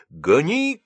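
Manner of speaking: high, loud command; shouted order. Acted. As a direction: bark the order to drive. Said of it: "крикнул старшина".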